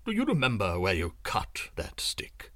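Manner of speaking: low secretive whisper; low looming threat. A narrator's reading. Sorcerer asks secretly.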